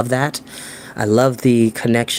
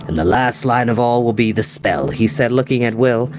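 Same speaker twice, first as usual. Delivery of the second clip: put-on solemn old wizard. Merriman speaking the spell.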